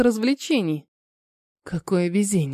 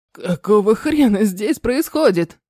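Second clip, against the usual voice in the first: рык. Acted. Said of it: "Оглушительный рык звенящим громом".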